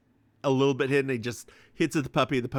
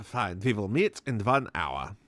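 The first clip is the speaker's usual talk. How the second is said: put-on Russian accent; 4 semitones lower than usual. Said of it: "I don't know why I made him Russian".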